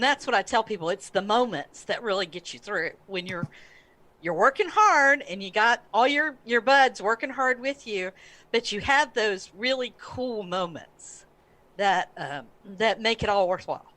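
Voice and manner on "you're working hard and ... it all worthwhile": after crying. Real, not acted. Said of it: "I'm sorry I'm teary".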